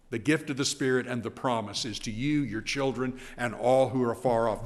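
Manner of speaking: put-on gift, children and all each leaned on a little; lightly stressed gift, children and all; emphasis on gift. Shown as a demonstration. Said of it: "There's where he puts the emphasis".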